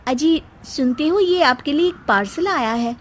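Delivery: high, cheerful wife's call; sweet wife. Acted. Seema hands Ankit a parcel, high and sweet. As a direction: call the husband, high and chirpy.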